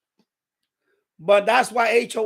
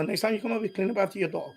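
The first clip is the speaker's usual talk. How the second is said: lower, softer retold warning; low-key, matter-of-fact reminder; restrained request; 3 semitones lower, 6 dB quieter, faster than usual. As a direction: say it evenly, holding back. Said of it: "I didn't say, I just said".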